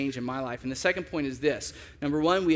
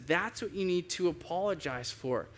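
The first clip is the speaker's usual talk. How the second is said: softer voice, kindly pointing out a fault; gentle correction; 3 semitones higher, 5 dB quieter than usual. Retold or imitated. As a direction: imitate the Lord correcting gently. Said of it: "he's usually really gentle with it".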